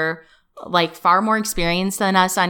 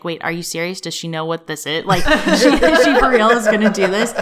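laughing, disbelieving quote, rising louder at the end; retelling her own starstruck reaction with a laugh; disbelieving gush; 4 dB louder than usual. Retold or imitated. An assistant recalling her own disbelief, laughing. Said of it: "I was like".

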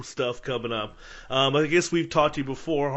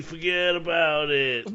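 Jersey accent attempt; 3 semitones higher, slower than usual. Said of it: "I'm from Jersey".

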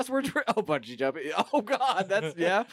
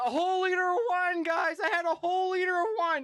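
put-on drunken yelling; 11 semitones higher than usual. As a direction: yell it like a wasted guy bragging. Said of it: "he just kept on yelling".

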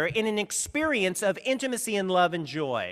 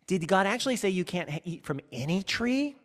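contemptuous eye-roll. Shown as a demonstration. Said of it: "you gotta have a, an eye roll and a glottal release".

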